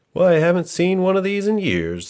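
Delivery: pleasantly surprised grandma; surprised grandmother. A narrator's reading. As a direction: marvel at something long forgotten. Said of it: "said the boy's grandmother".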